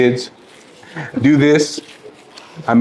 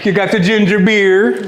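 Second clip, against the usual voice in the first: higher, laughing through a mock Jamaican accent; a clumsy Jamaican accent, breaking into laughter; bad Jamaican accent; 7 semitones higher than usual. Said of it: "That was a terrible accent".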